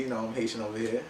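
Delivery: chuckling through a playful aside; light laugh while claiming his Haitian side. Real, not acted. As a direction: laugh it out as a proud joke. Joking about own Haitian roots.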